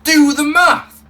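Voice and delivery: loud, slow mocking "Do the math"; mock shout. Quoting the American guy, a slow loud mock shout. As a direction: bellow it slowly to mock it. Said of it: "I got called".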